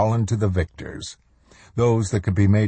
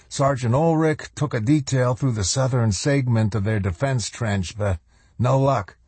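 higher-pitched subordinate officer reporting; dutiful lieutenant; 5 semitones higher than usual. Acted. Lieutenant reporting a failed search to his colonel, dutiful. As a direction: report up to your commander in a higher voice.

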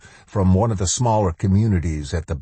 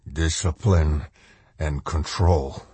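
slow, slurred and dazed; slower than usual. Acted. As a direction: slur it like half asleep. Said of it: "Macklin replied in a slurred voice".

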